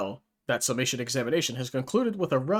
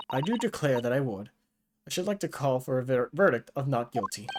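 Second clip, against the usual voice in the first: put-on southern accent. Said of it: "gave him a southern accent there".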